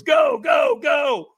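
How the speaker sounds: very high, loud urgent shout. Retold or imitated. Trainer shouting him onto the fire lane. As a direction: fire him across the coals. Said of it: "And he goes".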